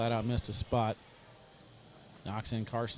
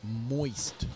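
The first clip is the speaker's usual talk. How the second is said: put-on New Orleans accent. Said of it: "saying these with an accent".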